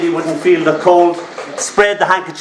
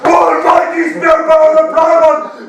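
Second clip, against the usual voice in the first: booming alien warlord; 11 semitones higher than usual. Pretend. Introducing himself to Stephen as a booming warlord. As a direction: declaim it like a mighty alien warrior.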